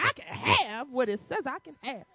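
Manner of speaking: firm, convinced declaration; read like you mean it. Shown as a demonstration. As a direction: claim every word as yours. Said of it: "I want you to read like".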